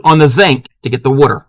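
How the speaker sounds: Maryland "zank" and "wooter"; Maryland accent. Shown as a demonstration. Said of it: "I don't have the accent".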